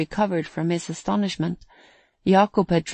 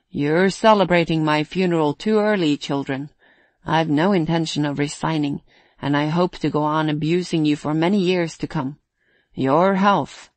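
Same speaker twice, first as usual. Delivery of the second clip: raised but not shouted toast voice; mildly loud toast. Acted. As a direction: speak up so all can hear, lightly. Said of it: "said in a loud voice that all could hear".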